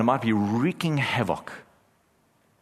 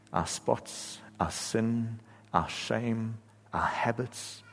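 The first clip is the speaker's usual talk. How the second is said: pastoral prayer. Acted. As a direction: pray over the congregation, hushed at the end. Pastor leads congregation in prayer.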